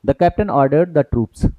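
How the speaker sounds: slow read-aloud. Shown as a demonstration. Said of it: "यहाँ पे एक कॉमा लगा है".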